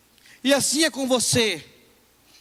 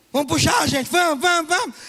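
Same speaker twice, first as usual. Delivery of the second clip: rallying cry; 6 semitones higher than usual. Retold or imitated. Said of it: "mother rallying kids".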